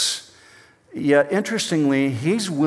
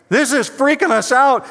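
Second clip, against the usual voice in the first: much higher and louder, shrieking panic; panicked sailor; 12 semitones higher, 5 dB louder than usual. Acted. Preacher voicing terrified sailors in the storm, high panicked squeal. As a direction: squeal it like a scared kid on the playground. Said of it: "they're screaming like third grade girls".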